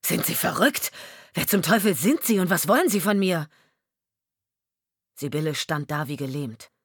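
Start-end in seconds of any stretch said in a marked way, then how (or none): 0.0-3.5 angry rebuff. Acted. Husband rejects stranger.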